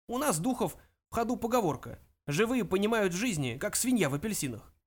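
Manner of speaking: put-on pompous elderly ancestor; lecturing old ghost. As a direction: lecture the youngster from lofty age. Ghost lectures great-grandson.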